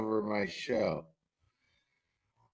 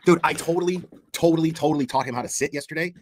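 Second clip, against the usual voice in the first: loud boast; 2 semitones higher, 8 dB louder, much faster than usual. Real, not acted. Streamer's clip replayed loudly.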